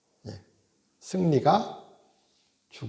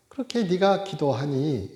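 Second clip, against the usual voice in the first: mock rebuke; 3 semitones higher than usual. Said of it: "이러실 수도 있잖아요".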